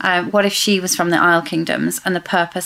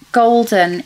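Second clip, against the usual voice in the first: "golden" said as if in italics; stress on golden; 4 semitones higher, 4 dB louder than usual. Retold or imitated. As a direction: lean on the word "golden" to set it apart. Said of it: "as if it's in italics".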